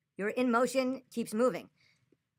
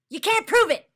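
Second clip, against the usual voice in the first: louder still, high shout of "prove"; angry shout; 9 semitones higher, 10 dB louder than usual. Real, not acted. Streamer shouting chat's phrase back, furious. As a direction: yell it back at them, fed up. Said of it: "I'm getting angry".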